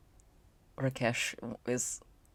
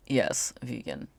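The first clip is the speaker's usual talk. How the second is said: slow calm confirm; slower than usual. Acted. Rakesh confirms calmly.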